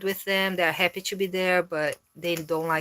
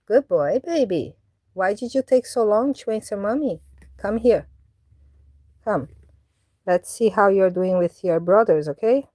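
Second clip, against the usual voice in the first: pet talk; 3 semitones higher, 5 dB louder than usual. Real, not acted. Owner praising her cat for coming, doting pet talk.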